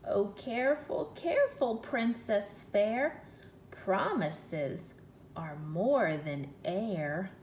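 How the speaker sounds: slow sing-song frog voice, rising on careful; a frog croaking a solemn warning through the door; slow croaked rhyme. Acted. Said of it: "she could hear him croaking".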